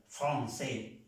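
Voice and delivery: "francés" said "fron-sé", with a nasal O; French nasal O. Shown as a demonstration. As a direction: model "francés" the French way, first vowel a nasal O. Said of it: "suena una O nasal". ("francés" como "fron-sé", con O nasal)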